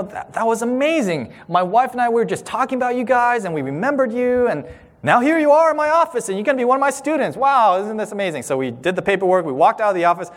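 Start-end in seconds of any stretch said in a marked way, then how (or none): 0.0-8.4 excited. Retold or imitated. Excited dean retold.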